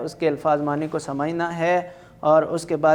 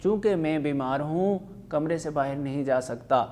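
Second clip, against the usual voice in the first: voicing husband and wife in turn, lively; reading a play aloud. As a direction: read the dialogue to the class with light character voices. Teacher reads a comic play aloud.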